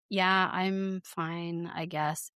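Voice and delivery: slow, sulky imitation, lightly done; mock pouty. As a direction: drag it out like a sulking kid. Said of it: "it's just pouty".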